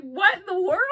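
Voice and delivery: acted-out flabbergasted reaction; retold amazement. Retelling her amazement at gift.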